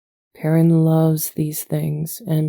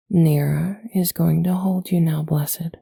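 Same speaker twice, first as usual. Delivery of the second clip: put-on whisper to baby. Talking to a baby.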